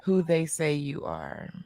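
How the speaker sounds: slow, solemn pronouncement; oracle voice. Pretend. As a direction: speak as a wise oracle giving truth. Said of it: "Here comes the voice".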